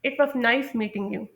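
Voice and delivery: slow, clear closing phrase; slow model sentence. Shown as a demonstration. Teacher slowly modelling a goodbye line. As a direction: say it slowly for learners to copy. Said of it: "या फिर".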